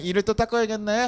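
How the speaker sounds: 닦아야겠네 ending in a gentle rise; fondly resigned parent, rising at the end; fond resignation. Retold or imitated. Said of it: "아니, 이뻐요".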